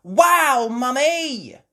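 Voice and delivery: high, loud, amazed cheer; children's cheer. Acted. Children admiring Mummy's pancake toss, cheering. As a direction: cheer for Mum with long vowels. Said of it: "Peppa and George cheered".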